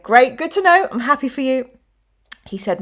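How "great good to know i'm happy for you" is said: forced cheer. Retold or imitated. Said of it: "and I was like".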